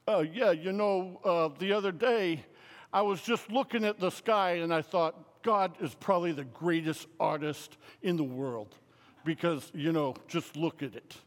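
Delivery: lightly voiced roommate trying to impress a priest; mild impression of an eager Chicago guy; stocky Chicago roommate. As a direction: play a stocky guy earnestly sharing his big thought. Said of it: "and he talked like this".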